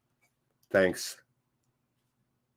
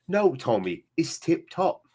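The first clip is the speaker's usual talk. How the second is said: imitated London gangster-film accent; Snatch London accent; 4 dB quieter than usual. Streamer quoting Snatch for his chat, London accent. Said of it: "I'll just fucking quote Snatch".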